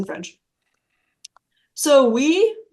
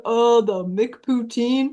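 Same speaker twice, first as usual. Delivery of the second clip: dumb American tourist; slower than usual. Retold or imitated. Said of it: "we sound like dumbass Americans".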